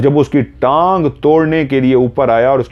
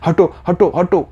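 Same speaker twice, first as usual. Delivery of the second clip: high-pitched acted panic; panicked; 9 semitones higher than usual. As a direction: ward him off in quick, high repeats. Terrified wife pushing husband away. (घबराहट में ऊँची आवाज़)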